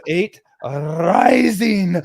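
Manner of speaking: high, loud imitation of breathless laughter; mock helpless wheeze, breaking into laughter; out of breath. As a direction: squeeze it out between laughs, climbing in pitch. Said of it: "he can't even catch his breath".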